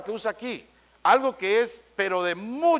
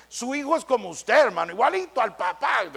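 flattering acquaintance; 4 semitones higher than usual. Retold or imitated. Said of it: "Cuando le dicen".

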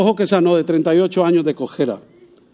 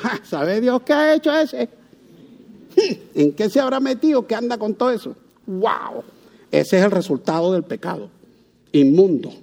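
softer, sneering murmur of judgment; mock the gossip who blames the sick; judging gossip; 3 dB quieter than usual. Churchgoers whispering judgment about a sick person, sneering. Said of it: "lo primero que decimos".

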